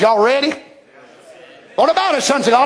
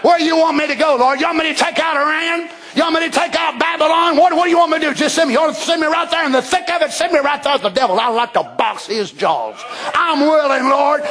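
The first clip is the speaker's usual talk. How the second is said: eager volunteer soldier; 5 semitones higher than usual. Retold or imitated. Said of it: "we're on our horse and gone".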